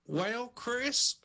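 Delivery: a hint of talk-show therapist; Doctor Phil. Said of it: "if I can do a good Doctor Phil".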